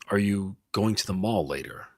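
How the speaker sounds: slow, deliberate, "later" falling. Shown as a demonstration. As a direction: take it slow and certain. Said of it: "Or if you slow it down".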